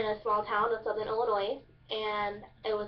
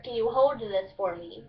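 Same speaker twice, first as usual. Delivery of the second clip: Kentucky "hold" said as "hode"; Kentucky dialect. Shown as a demonstration. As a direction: drop the L in "hold", Kentucky style. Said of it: "you take out the L".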